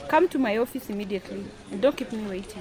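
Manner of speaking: loud, sharp order; curt command. Acted. Upset boss ordering the technician to her office, curt. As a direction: demand he come at once.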